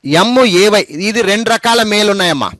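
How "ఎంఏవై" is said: slow spelling. Shown as a demonstration. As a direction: spell "ఎంఏవై" slowly, letter by letter. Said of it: "గుర్తుపెట్టుకోండి".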